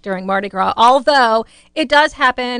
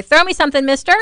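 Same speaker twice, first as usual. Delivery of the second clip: called out, a bit higher and brighter; calling out for beads; 5 semitones higher, 3 dB louder, much faster than usual. Retold or imitated. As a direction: call up to the parade float. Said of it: "you're supposed to say".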